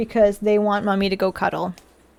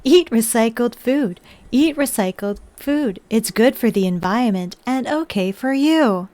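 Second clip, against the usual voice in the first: put-on old speech synthesizer. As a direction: chant it like a dystopian machine. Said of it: "Yeah, the robot one".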